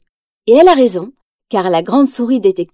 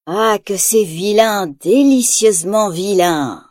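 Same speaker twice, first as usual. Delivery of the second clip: gloating chuckle; 2 semitones lower, slower than usual. Acted. Ratigan admiring his robot, slow gloating relish. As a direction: savour every wicked word slowly. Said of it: "glousse-t-il".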